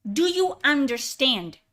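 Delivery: "Do you understand" spaced out firmly; deliberate, emphatic. Real, not acted. Streamer driving his point home to viewers, deliberate and emphatic. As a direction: press each word of "Do you understand". Repeats question word by word.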